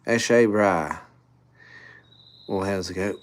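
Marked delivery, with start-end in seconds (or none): 0.0-1.0 lightly exaggerated Aussie accent; Australian accent. Shown as a demonstration. Streamer trying the phrase on request, light Australian accent. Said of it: "in an Australian accent".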